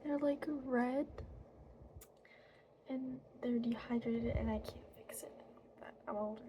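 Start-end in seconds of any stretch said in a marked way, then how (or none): 2.9-6.4 fairy whisper. Acted.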